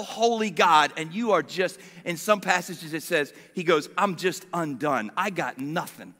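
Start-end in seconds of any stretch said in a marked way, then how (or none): 4.0-6.1 low, softer, understated defeat; humbled. Acted. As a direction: admit you are undone, voice dropping. Isaiah undone before a holy God.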